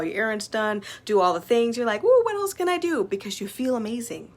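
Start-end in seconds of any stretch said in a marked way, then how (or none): 2.0-3.0 high, loud eager ooh; bursting with energy to do more; playful mock excitement; excited ooh. Imagined energized self.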